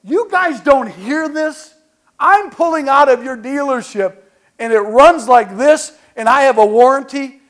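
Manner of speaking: exasperated complaint. Retold or imitated. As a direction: make them hear how absurd it is. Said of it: "I go".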